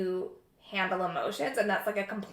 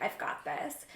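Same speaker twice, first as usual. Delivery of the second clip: whispered self-pep talk; 9 dB quieter, slower than usual. Retold or imitated. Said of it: "sit down and be like".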